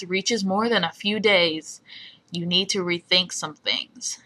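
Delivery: lightly voiced radio host impression; amateur host reading out a measured announcement; Cecil. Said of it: "okay, my Cecil impression".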